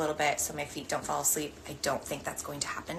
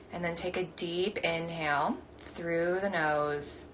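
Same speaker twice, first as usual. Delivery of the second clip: slow guiding voice with long pauses; guided meditation. Acted. Meditation teacher guiding the group's breathing, slow and measured. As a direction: lead them gently through each breath.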